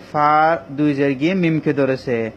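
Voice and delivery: slow, word by word: এবং ফা দুই জের গিয়ে মিমকে ধরেছে; slow spelling demo. Shown as a demonstration. Quran teacher spelling slowly for students. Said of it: "মিমকে গুণা করতে হবে".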